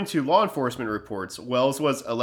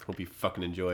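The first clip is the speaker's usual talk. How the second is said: muttering; 5 semitones lower, 11 dB quieter, faster than usual. Real, not acted. Muttering jab at ad pitch.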